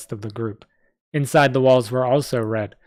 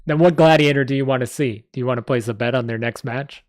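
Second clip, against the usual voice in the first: New York goblin; 4 dB louder than usual. Acted. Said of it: "why he's from New York".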